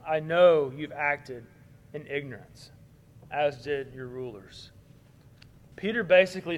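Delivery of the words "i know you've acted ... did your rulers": gentle, understanding. Retold or imitated. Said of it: "he says".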